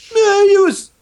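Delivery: mock reluctant. Reluctant praise of Charlie Sheen.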